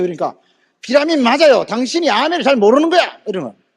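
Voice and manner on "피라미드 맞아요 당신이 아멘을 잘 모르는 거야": higher-pitched, overbearing insistence; insistent contradiction. Retold or imitated. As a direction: imitate a man arguing them down. Man insists in retold quarrel.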